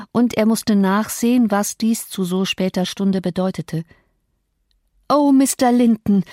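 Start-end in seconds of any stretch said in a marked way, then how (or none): 5.1-6.2 startled cry, a bit higher and louder; mild narrated outcry. A narrator's reading. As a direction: call out to the master in alarm. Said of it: "schrie ich".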